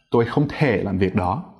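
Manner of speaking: thể starting high and dropping sharply; high, then sharply low. Shown as a demonstration. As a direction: drop thể low without coming back up. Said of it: "start high, go low sharply".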